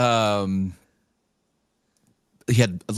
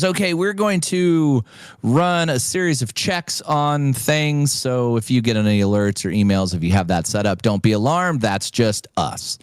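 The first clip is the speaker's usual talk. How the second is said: official caller lady. Retold or imitated. Caller from Aristocrat questions the winner, prim official. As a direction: read it like a formal call-centre script.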